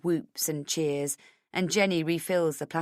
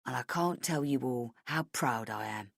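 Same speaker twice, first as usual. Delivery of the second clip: softer, lower, quieter line; subdued; 5 semitones lower, 7 dB quieter than usual. A narrator's reading. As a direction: pull back into a heartfelt hush. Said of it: "in a more subdued tone".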